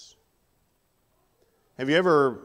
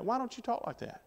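high, softer incredulous question; baffled questioning; 10 semitones higher, 8 dB quieter than usual. Acted. Coworker puzzled by a Christian's clean language, incredulous. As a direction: pitch shoots up in mock puzzlement.

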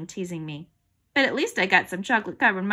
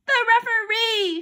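high, loud answer; girl's shouted answer; 13 semitones higher, 7 dB louder than usual. A narrator's reading. Girl winning the quiz, shouting. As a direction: shout it out over your rival. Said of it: "shouted Andrea".

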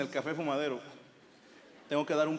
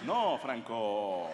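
slow, low, let-down no; disappointed; 6 semitones lower, much slower than usual. Retold or imitated. Friends refusing Franco, slow disappointed groan. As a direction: drag it out, deeply disappointed. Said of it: "más así como decepcionados".

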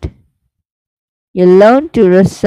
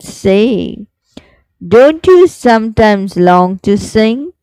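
slow, sing-song recital with rising line ends; poem recitation; slower than usual. Shown as a demonstration. Teacher reciting the lark poem for students, slow sing-song. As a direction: recite it like a class poem, each line lingering.

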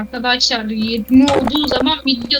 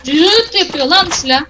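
frustrated exclaiming; 6 semitones higher than usual. Real, not acted. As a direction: cry out at the gun. Frustrated while aiming.

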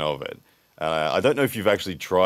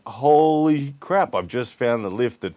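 acted wonder, pitched up; amazed discovery; 3 semitones higher than usual. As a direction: re-enact a sudden realization, slowly stretched. Acts out his moment of discovery.

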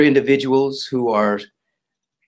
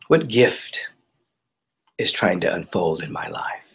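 hushed, lower questions with long pauses; contemplative questioning; 3 semitones lower than usual. Real, not acted. Teacher models questions asked in meditation, contemplative.

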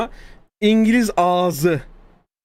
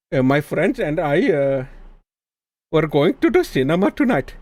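put-on Indian-accented English; English in a mock Indian accent. Shown as a demonstration. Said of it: "Bazen Hintli oluyor".

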